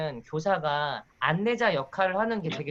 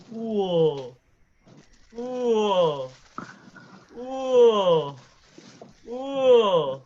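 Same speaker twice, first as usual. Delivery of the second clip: louder drawn-out gasps of wonder; exaggerated amazement; 2 semitones higher, 5 dB louder, much slower than usual. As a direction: act amazed for little kids. Mock amazement for kids.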